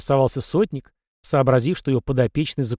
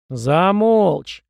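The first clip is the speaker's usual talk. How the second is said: loud, high, drawn-out bark; barked order; 5 semitones higher, 5 dB louder than usual. A narrator's reading. Captain silences the young prince, barking. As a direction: cut the boy off with a roar. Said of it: "рявкнул сотник".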